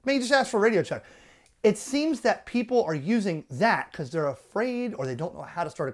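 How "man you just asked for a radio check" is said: exasperated. Shown as a demonstration. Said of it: "they're like".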